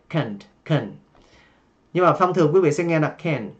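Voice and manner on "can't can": "can" with a light ơ vowel, low and soft; light schwa vowel. Shown as a demonstration. Teacher showing the light-vowel pronunciation to learners. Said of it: "âm ơ nhẹ".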